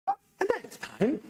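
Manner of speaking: real emotion breaking through as he remembers; choked up. Real, not acted. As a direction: voice catching between a laugh and a cry. Recalling bodies seen as teenager.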